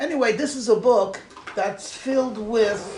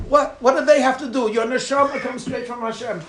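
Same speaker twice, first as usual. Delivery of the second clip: raised, impatient mock rebuke; blunt rebuttal; 4 semitones higher, 4 dB louder than usual. Holy book rebuts the reader's excuse about parents, raised mock scolding. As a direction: brush the excuse aside insistently. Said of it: "they mince no words".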